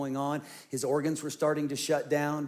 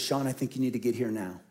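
ordinary talk

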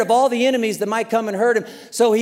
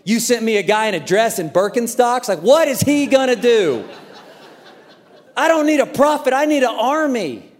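incredulous complaint. Retold or imitated. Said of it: "I'd be like".

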